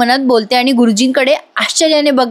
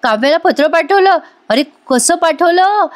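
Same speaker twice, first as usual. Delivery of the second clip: higher, astonished disbelief; shocked uncle; 5 semitones higher than usual. Retold or imitated. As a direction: gasp it out like an uncle who can't believe it. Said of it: "मिथुन काका म्हणतात".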